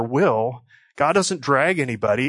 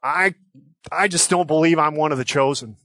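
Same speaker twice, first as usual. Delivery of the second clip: doubting listener; 3 semitones higher than usual. Pretend. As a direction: voice a hesitant believer, a bit rushed. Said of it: "But you might say".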